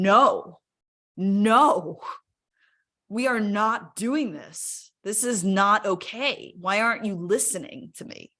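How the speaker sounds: firm, emphatic protest, imitating the body's outcry; slow, insistent plea, only partly a scream; mild retold scream. Body protesting to its owner who ignores it, mild retold scream. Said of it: "like, it was screaming".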